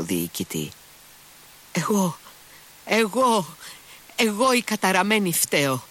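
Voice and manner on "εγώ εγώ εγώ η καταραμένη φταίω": high, wailing, tearful outcry; wailing confession. A narrator's reading. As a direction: cry it out like a broken woman begging. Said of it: "ξεφώνησε με μια σπαρακτική κραυγή, κλαίγοντας".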